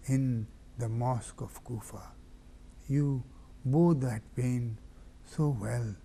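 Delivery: hushed, mournful preaching that drops to a whisper; grieving sermon recital. Acted. Preacher recounts Hussein's farewell in mournful hushed tones.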